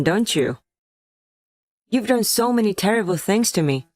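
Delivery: hard, pointed accusations that build as she goes; wife finally unloading her grievances, bitter and angry; bitter anger. Acted. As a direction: let the resentment spill out, fast at the end. Wife's angry outburst at sick husband.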